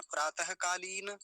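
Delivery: प्रातःकालीन said slowly with long vowels; careful model pronunciation. Shown as a demonstration. Teacher showing students the word for morning recitation, careful pronunciation. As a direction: sound out प्रातःकालीन with a full final na. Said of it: "जब ये शब्द बोलेंगे".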